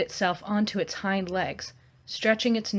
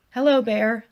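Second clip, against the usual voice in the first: ordinary voice; 3 semitones higher, 5 dB louder than usual. Acted. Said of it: "I said in an ordinary voice".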